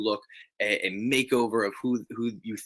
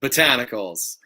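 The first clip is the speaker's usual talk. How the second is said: drawn-out, louder one-word announcement; mock-grand voice note imitation; imitating friend's voice note; 2 semitones higher, 5 dB louder than usual. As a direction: proclaim it like a silly catchphrase. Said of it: "it is just him going".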